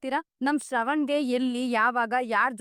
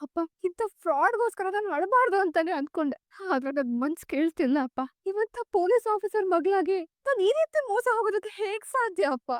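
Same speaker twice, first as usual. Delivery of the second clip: tearful; 3 semitones higher than usual. Acted. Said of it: "ಅಳ್ಬೇಡ".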